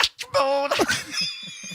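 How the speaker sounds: high, breathy hee-hee laugh-squeal like a famous pop singer. Shown as a demonstration. Answering the dare to sing like a famous pop singer, high squeal. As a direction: toss off a quick pop-star yelp. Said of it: "That's my Michael Jackson impression".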